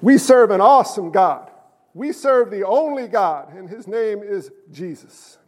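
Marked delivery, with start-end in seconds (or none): 0.0-3.5 fervent, loud, low-pitched preaching; excited. Real, not acted. Preacher apologising to congregation for his zeal, excited and loud. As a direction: proclaim it with rising zeal. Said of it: "I get so excited about this".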